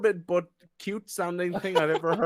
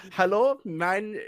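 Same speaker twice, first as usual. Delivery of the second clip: slow German-style reading; German accent; 2 semitones higher, slower than usual. Acted. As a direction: read it as if German. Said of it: "Don't read it like you're German".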